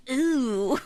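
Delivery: rising, disgusted ooh; grossed-out ooh. Retold or imitated. A viewer realizing the self-insert, grossed-out ooh. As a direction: recoil at the creepy truth.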